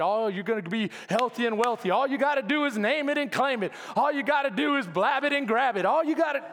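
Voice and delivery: mock preacher hype, sing-song; mocking prosperity preachers. Preacher mocking prosperity preachers to his church, a lightly hammed-up preacher voice. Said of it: "they've said".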